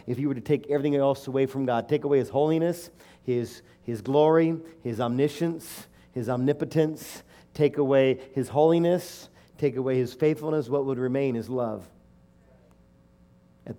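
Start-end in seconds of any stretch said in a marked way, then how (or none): 0.1-11.9 stack the list, rising in force; building preaching. Acted. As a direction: preach it up louder. Preaching build, take away list.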